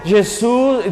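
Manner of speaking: usual speaking voice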